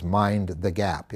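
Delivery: slow, clipped British announcer "Mind the gap"; a slow British-accented "Mind the gap". Retold or imitated. Pastor imitating the London subway recording in a British accent. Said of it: "in a British accent".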